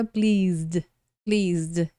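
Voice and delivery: pleased in one syllable ending in zd; pronúncia de pleased. Shown as a demonstration. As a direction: say pleased with the second e silent. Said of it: "É o Z e o D". (pleased com Z e D no final, E mudo)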